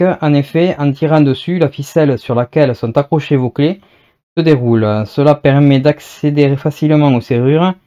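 measured, scripted presenter read; lightly formal catalogue reading; product read-aloud. Acted. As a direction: read the blurb out evenly and clearly. Reads the product description aloud.

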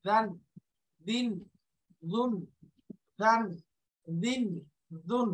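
"দান, দিন, দুন" with soft voiced th; soft dhal. Shown as a demonstration. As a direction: drill "দান" with tongue tip at upper teeth. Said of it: "নরম করে".

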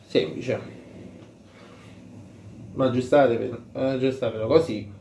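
fabric covering mouth; muffled through cloth mask; through a balaclava. Real, not acted. Seen 3: Balaclava pulled up over mouth and nose from about 4.8s.

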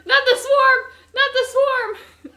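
high, loud laughing-crying wail; panicked laughing scream. Real, not acted. Gamer fleeing the swarm, high panicked laughing scream. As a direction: shriek in terrified laughter.

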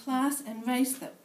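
measured spoken-word poetry reading; poem reading. Acted. Poet reading her piece to a room of sociologists, measured recital. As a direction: read it as a performed poem.

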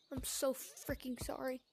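hushed apologetic whisper. Real, not acted. Apologizing after loud scream.

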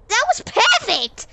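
high, loud, slow cry of triumph; triumphant shout. Real, not acted. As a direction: savor the win out loud. Clearing the jump at last.

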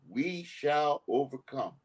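slow solemn presidential quote; lightly voiced Lyndon Johnson, slow and grave; a hint of a Southern president, slowed; quoting the president. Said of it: "the President of the United States say".

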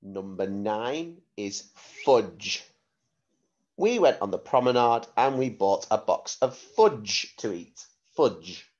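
clear, careful word-sentence-word dictation. Shown as a demonstration. Spelling test dictation.

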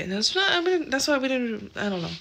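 tripping over the words; stumbling, restarting the sentence; stuttering. Real, not acted. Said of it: "Oh my god, I'm stuttering".

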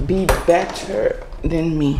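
teasing, light urging; playful. Real, not acted. To her viewers, a playful nudge before getting serious. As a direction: toss it off half joking. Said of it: "In all seriousness".

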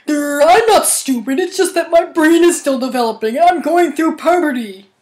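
a hint of a dim starfish; a hint of a dim starfish defending himself; Patrick Star voice. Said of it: "I wanna do a Patrick Star voice".

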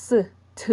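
s and ถ as two separate sounds; ending sounds s and ถ, one at a time; isolated s, t sounds. Shown as a demonstration. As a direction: sound out s, pause, then ถ as a puffed t. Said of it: "สังเกตว่ามันจะออกเสียง".

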